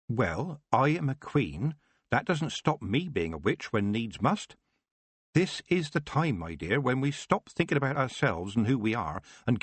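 rally her like a stern but kindly queen; a hint of a determined queen; Queen Magrat. Magrat rallies the Baroness.

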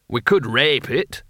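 slow, tentative suggestion; drawn-out, mildly eager proposal; hopeful. A narrator's reading. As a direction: offer it hopefully. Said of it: "said Caleb hopefully".

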